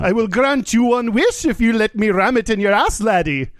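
high, lilting Irish leprechaun; Irish accent. Acted. Joke teller voicing a leprechaun reassuring a man, high mock Irish accent. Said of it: "an Irish voice".

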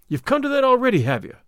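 jealous jab, starting high then dropping; angry oath. A narrator's reading. Jealous rival accusing the pair of intimacy, angry. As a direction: accuse with rising indignation. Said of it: "said Baldwin with an oath".

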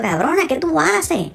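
high, drawn-out mock outrage; retold outraged disbelief. Caller retells confronting the woman who faked death, high disbelief. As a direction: stretch it high in appalled disbelief.

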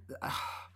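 breathy sigh, no words; swooning sigh. Acted. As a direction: sigh in admiration. Swooning over the lyrics.

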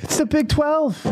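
high-pitched mock exasperation; exasperated. Host mimicking the fed-up guest, exasperated. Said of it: "he was so exasperated".

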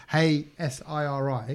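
quiet, slow voice-assistant command; hushed. Retold or imitated. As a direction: say it softly so phones don't wake. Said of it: "it's gonna trigger all my phones".

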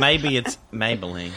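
plain spoken ad tagline; ad slogan. Retold or imitated. GM finishes the makeup ad line plainly. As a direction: finish the jingle in your own voice. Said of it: "ad jingle quoted".

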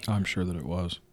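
soft dry whisper. Real, not acted. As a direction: whisper it back. Answering in a whisper.

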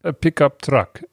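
light mock Russian accent. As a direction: greet in a thick Russian accent. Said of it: "I gotta get my Russian accent right".

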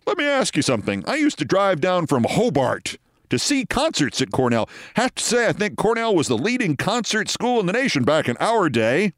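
lightly voiced chatty suited gent; a hint of a jovial, old-school producer; Scott Carter. Producer defusing a quarrel with concert memories, lightly voiced genial gent. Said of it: "Scott Carter comes over to defuse".

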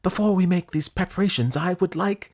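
high, loud protesting prince; exclaiming prince. Acted. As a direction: blurt out a protest to the king. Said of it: "exclaimed the prince".

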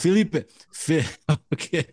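Felipe said with a gringo accent; English speaker fumbling a Spanish name; American accent Spanish. Real, not acted. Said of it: "now I sound like a gringo".

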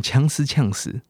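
"呛死" said as a Chinese-ised "chance"; playful mock "chance"; joking chance. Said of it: "有些人会讲".

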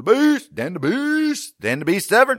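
hammed-up fight announcer intro; announcer hype. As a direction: call it like a ring announcer. Hyping a fighter name.

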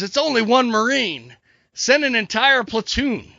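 high-pitched, incredulous order; mock-exasperated officer giving orders; exasperated commander. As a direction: protest in disbelief, then order it slowly. Commander dismisses soldier's plea.

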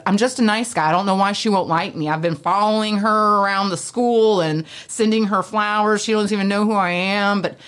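mock the self-pitying nice guy; nerdy nice guy voice. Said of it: "is that a nerdy voice?".

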